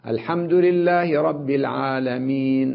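العالمين with a faint, barely voiced vowel on the final ن; slow recitation, the last vowel of العالمين only whispered; rawm repeated. Shown as a demonstration. Teacher repeating the rawm example for practice, slow. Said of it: "أقول هكذا".

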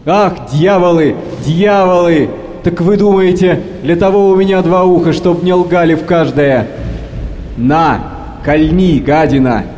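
captain raging at the lying crew; furious outburst. Acted. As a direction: hurl the curses at the sailors. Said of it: "И вдруг хохочет громко".

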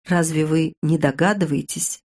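plain reading voice

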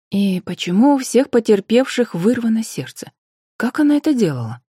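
a hint of an inquisitive investigator; woman investigator, questioning. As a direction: press the witness with lifted questions. Narrator voices the investigator questioning him.

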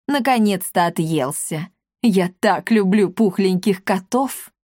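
put-on slow, fond old-woman voice; lightly voiced granny cooing over cats; doting old lady. Old lady gushes over plump cats, slow and fond.

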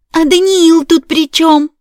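high, loud indignant question; shrill demand. A narrator's reading. Wife demanding why her husband is involved, outraged and loud. Karina demands about Daniil.

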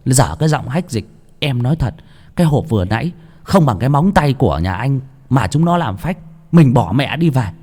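put-on grumbling young man. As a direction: grumble to his master. Bảy Ếch grumbling aside. (giọng thanh niên cao, càu nhàu)

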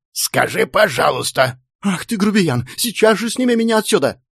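high-pitched demand to be released; outraged little woman's piping cry; squeaky indignation. A narrator's reading. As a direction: squeal at the brute who lifted you. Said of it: "пищала она".

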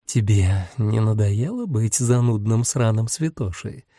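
a hint of syrupy, slow drawl; sugary drawl. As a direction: drawl it out sweetly, mocking. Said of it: "елейным голосом протянула Лилит".

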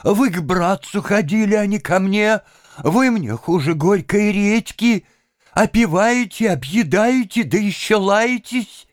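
high, loud scolding woman's voice; scolding landlady. A narrator's reading. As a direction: tell him off, fed up.

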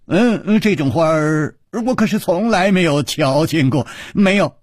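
high, emphatic denial; head-shaking denial. A narrator's reading. Chu denying he knows the flower, emphatic. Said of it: "楚留香摇着头说".

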